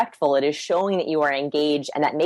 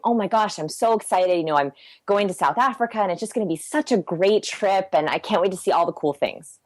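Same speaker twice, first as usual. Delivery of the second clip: excited and happy; 3 semitones higher than usual. Acted. Date telling about a South Africa trip, excited and happy. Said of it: "makes them really excited and happy".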